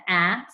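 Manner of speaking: "ah" said open and short, like the a in apple; short a sound. Shown as a demonstration. Teacher showing the class the short A, a clear "ah". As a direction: give the pure short "ah" of apple. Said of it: "Is sad making the".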